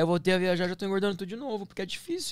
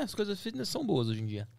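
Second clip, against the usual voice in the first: whispering; 4 semitones higher, 6 dB quieter than usual. Real, not acted. Joking aside about fitness food.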